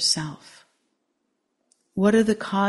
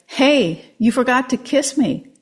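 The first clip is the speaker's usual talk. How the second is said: higher, louder frog complaint; indignant frog; 6 semitones higher, 6 dB louder than usual. A narrator's reading. Frog in the man's pocket protesting, higher and louder. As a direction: remind him sharply from the pocket. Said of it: "the frog said".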